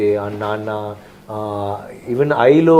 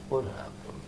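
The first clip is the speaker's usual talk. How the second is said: a breathy, unvoiced what happened; breathy villain voice; 17 dB quieter, much slower than usual. Actor demoing how Love speaks, breathed hush. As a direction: breathe it with no voice at all. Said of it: "so it'll be like".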